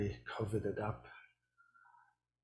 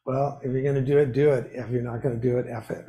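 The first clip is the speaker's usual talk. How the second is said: quoting the Dalai Lama; 9 dB louder, faster than usual. Retold or imitated. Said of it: "He said".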